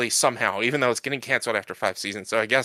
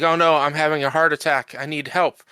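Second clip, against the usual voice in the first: slightly higher, hammed-up plea for help; mock heart attack; 4 semitones higher than usual. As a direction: imitate someone faking a medical emergency. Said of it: "starts to fake a heart, heart attack".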